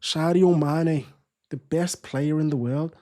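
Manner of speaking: badly faked Scouse, first name drawn out; Scouse accent attempt. Streamer retrying his praise of Sadio Mane, slow Scouse accent. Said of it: "Horrible Scouse accent".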